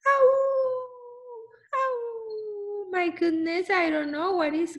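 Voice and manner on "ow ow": dog howl. Acted. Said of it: "Lucy howled in the afternoon".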